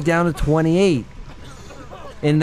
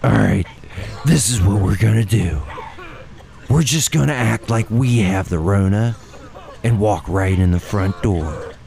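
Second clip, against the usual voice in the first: low, gruff-leader impression, much deeper than usual; 8 semitones lower than usual. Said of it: "the P R voice".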